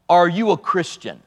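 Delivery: lightly imitated Southern drawl of a preacher; a hint of Southern evangelist. Preacher ending a crusade with a question, light Southern drawl. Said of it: "in his southern drawl".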